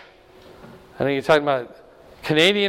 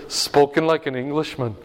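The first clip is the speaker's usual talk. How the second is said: the Scot's jab said through a laugh; retold quip with a laugh in it; laughing retelling. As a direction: chuckle the put-down as you repeat it. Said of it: "It's like".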